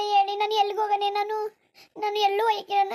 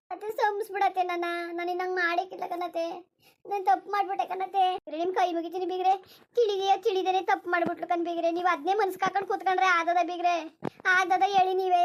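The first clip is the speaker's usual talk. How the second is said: pleading daughter-in-law. Acted. Daughter-in-law begs again.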